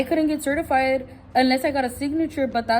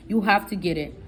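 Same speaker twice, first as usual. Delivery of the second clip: dismissive clerk; 3 semitones lower than usual. Retold or imitated. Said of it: "She's talking to me like that, with rolling her eyes".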